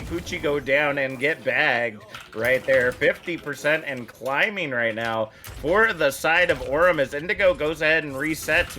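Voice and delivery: rising excited esports call; play-by-play commentary. Acted. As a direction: build hype over the fight. Live play-by-play.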